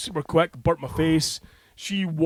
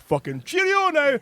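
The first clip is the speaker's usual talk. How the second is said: high mock-cheery goodbye as the bus pulls up; high hurried farewell; 11 semitones higher than usual. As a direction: sing out a desperate goodbye. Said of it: "and I'm like".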